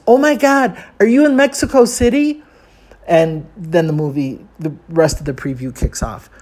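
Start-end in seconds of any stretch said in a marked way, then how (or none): 0.1-2.4 high-pitched, alarmed mom outcry; mildly raised, horrified mother voice; mock scream. Mother hears the tape over the phone, mock scream. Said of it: "her mother screams".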